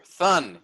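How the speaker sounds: "thun" said alone as a stressed syllable; "thun" as one firm, emphasized beat. Shown as a demonstration. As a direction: punch out "thun" by itself. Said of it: "you pronounce thun more than the der".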